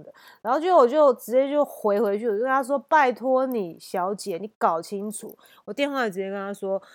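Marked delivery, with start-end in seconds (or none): 2.9-5.4 loud retort. Retold or imitated. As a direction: talk back hard. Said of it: "很大声呛回去".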